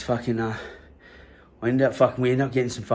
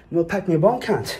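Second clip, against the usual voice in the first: higher, louder bossy demand; cocky order; 7 semitones higher, 3 dB louder than usual. Retold or imitated. Teen bossing the bully with the gun in hand. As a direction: order him about, smug.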